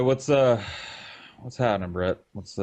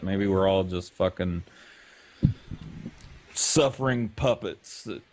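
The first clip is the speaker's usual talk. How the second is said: vocal fry. Real, not acted. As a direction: let the voice crackle into fry. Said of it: "Lots of vocal fry".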